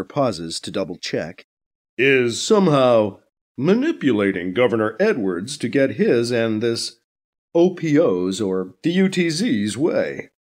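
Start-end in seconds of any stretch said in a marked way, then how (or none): 2.0-10.3 a lightly voiced interviewer; news anchor. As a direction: anchor probing the guest calmly.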